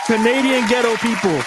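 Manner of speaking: mock Canadian accent. Mimicking the Canadian girl's accent, mock Canadian accent. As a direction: play a hammed-up Canadian accent. Repeats phrase in put-on voice.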